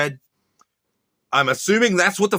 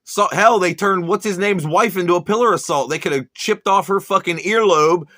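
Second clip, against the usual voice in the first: angry rant; 2 semitones higher than usual. Real, not acted. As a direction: tear into him with mounting scorn. Ranting at preacher Buster.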